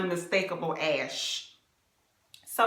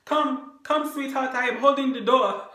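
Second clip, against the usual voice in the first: date calling out; 4 semitones higher, 6 dB louder than usual. Retold or imitated. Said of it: "for me".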